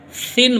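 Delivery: سن with the Urdu letter sa, not seen; right sa sound. Shown as a demonstration. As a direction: say سن starting with the letter sa. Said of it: "یعنی سا کی آواز نکالیے".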